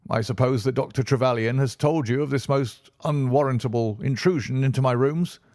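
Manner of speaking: a jittery man peering down the stairs; fat, jangled-nerved patient questioning the visitors; nervous patient. A narrator's reading. Patient greets Holmes.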